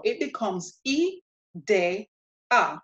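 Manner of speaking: "I, de, a" with Spanish vowels, a pause between each; syllable by syllable. Shown as a demonstration. Teacher breaks up a Spanish word for learners, syllable by syllable. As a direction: sound out "I, de, a" in separate syllables. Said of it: "to pronounce this word now".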